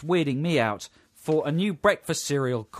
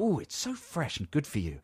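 put-on silly Italian accent; 2 semitones higher, 6 dB quieter than usual. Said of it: "silly Italian accent".

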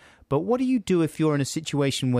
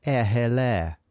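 mock posh accent; slower than usual. Shown as a demonstration. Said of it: "makes you sound posh".

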